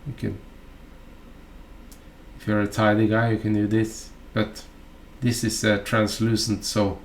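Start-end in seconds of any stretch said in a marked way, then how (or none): none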